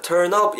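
"turn up" with lips closing on a P instead of F; wrong P ending. Shown as a demonstration. Teacher showing the mistake, "turn up" with a popped P. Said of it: "이렇게 하지 마시고요".

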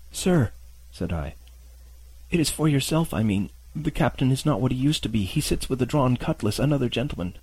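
put-on high, scared boy's voice; frightened boy. Boy pleads with beggar.

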